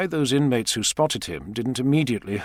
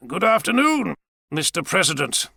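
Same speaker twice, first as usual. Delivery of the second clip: lightly sing-out, higher-pitched hello; knowing greeting; 7 semitones higher than usual. Acted. Savage greeting the president in the governor's office, lifted greeting. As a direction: greet him grandly, pitched up.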